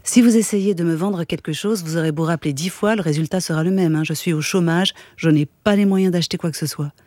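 steady reading of a novel aloud; calm literary read-aloud voice; story narration. A narrator's reading.

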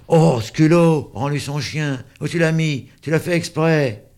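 put-on high indignant child voices; children accusing a classmate together; protesting children. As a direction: gang up on him, outraged. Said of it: "en protestant".

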